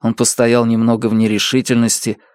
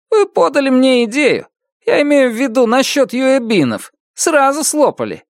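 high, smug boast; proud; 14 semitones higher than usual. A narrator's reading. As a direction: brag about it pleased with himself. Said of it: "Он говорил это с гордостью". (с гордостью)

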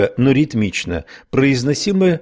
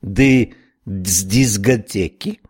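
put-on slow Irish-accented question; eager Irish snail asking; slower than usual. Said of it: "воскликнула улитка". (ирландский акцент)

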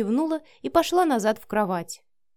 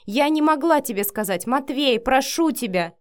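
raised, louder pleading; urgent plea; 5 semitones higher, 5 dB louder than usual. A narrator's reading. Pleading outburst in a quarrel. (горячо умоляя)

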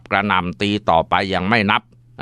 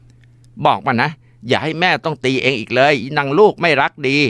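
furious threat; 6 semitones higher than usual. Acted. Mother threatening while beating.

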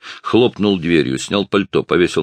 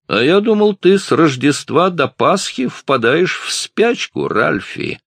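taunting bully; 12 semitones higher, 4 dB louder than usual. A narrator's reading. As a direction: needle him like a bully. Big guy taunting Ralph. (грубый парень дразнит Ральфа, насмешливо и громко)

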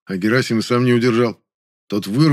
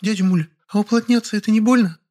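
put-on high child voice, timid question; a small boy worried it might hurt; hesitant kid asking; boy asking quietly; 12 semitones higher than usual. A narrator's reading. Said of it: "тихо спросил меня".

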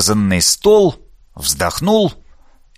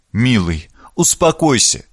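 cooing; 6 semitones higher than usual. Acted. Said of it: "заворковала".

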